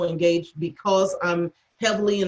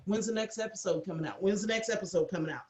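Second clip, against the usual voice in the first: eager husband; 10 dB quieter, faster than usual. Retold or imitated. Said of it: "Daniel to sit there and go".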